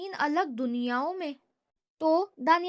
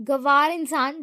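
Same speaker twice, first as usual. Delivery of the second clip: "گوار" spat out louder with full contempt; 8 dB louder than usual. Acted. Danial sneers "گوار" at his brother with contempt. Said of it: "بھرپور تحقیر سے کہا".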